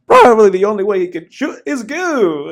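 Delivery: put-on Texas accent. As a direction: ham up a Texas sheriff's accent while cracking up. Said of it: "he said it with that Texas accent".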